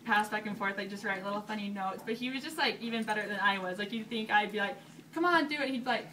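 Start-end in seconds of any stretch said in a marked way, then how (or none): 5.1-5.7 higher, playful retold nudge; mock urging in a raised voice; coaxing. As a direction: egg someone on lightly. Acting out coaxing him.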